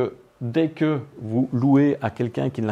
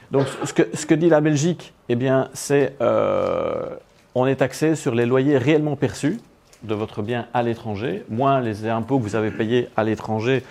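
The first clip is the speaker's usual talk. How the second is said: to someone hard of hearing. Real, not acted. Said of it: "Parlez plus fort?".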